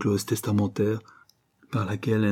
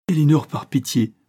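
broken voice; 5 semitones higher, 5 dB louder than usual. A narrator's reading. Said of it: "s'écria-t-il d'une voix brisée".

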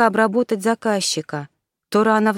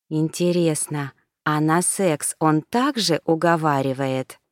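husky question; 3 semitones lower than usual. Acted. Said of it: "хрипло спросила она".

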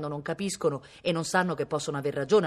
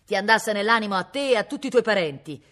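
put-on cranky old man yelling a curse; loud, raised, ill-tempered outburst; angry shout; 5 semitones higher, 7 dB louder than usual. A narrator's reading. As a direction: curse him and his whole family. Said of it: "gridò il vecchio".

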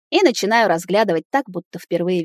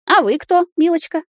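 put-on high, sharp old woman asking; grandmother's voice; 11 semitones higher, 4 dB louder than usual. A narrator's reading. Grandmother challenges the girlfriend in a high sharp voice. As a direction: voice the granny sizing up a stranger.

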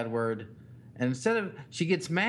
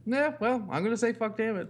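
put-on higher, sing-song child taunting dad; pushing her dad's buttons, bratty little-girl voice; bratty kid taunt; 7 semitones higher than usual. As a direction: taunt like a defiant toddler. Parent voices daughter's taunt.

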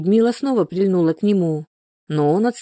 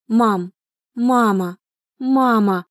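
drawn-out, slow cries of mama, the last climbing higher; desperate pleading; 4 semitones higher, much slower than usual. A narrator's reading. Daughter pleading desperately as mother throws out her things. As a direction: beg her in despair, voice rising. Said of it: "в отчаянии повторяла Соня".

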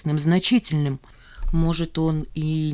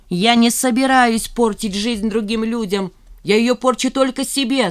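a raised, mock-shouted outburst; shouting; 7 semitones higher, 5 dB louder than usual. Zhanna shouting at Remizov, hurt and defiant. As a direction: throw it back at him. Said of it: "закричала она".

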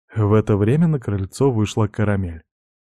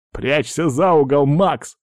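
urgent order, pitched up; commanding; 5 semitones higher, slower than usual. Acted. Pirate sending his friend behind the corner, commanding. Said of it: "скомандовал Дерек".

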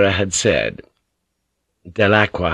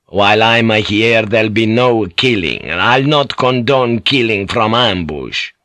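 forbidding insistence; 3 dB louder than usual. Acted. Priest forbids killing from ambush.

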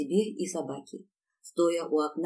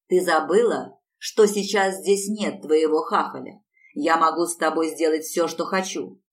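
menacing threat; 6 dB louder than usual. Acted. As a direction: threaten her up close. Husband threatens her face to face.

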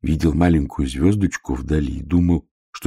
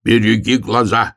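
shout; 6 semitones higher, 4 dB louder than usual. Acted. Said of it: "крикнул медвежонок".

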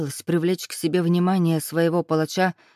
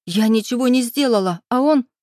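rising higher and louder into an outburst; indignant girl, growing louder and higher; angry protest; 5 semitones higher, 5 dB louder than usual. A narrator's reading. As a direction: protest building until it breaks off. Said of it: "прошипела".

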